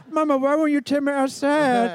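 high, put-on talking-dog voice; Diego the dog. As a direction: voice a simple pet dog talking to its mama. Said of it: "I do a voice of, of Chloe's dog, Diego".

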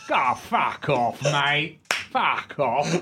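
slow, dismissive Cockney; lightly voiced Cockney brush-off, drawn out. Cockney refusing to believe it's Olivier, dismissive Cockney. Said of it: "this Cockney comes in".

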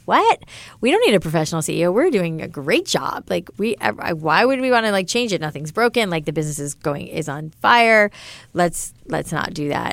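bratty protest. Retold or imitated. Founder balking at investors urging a professional CEO, bratty. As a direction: act out indignant, bratty resistance. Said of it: "bratty about that".

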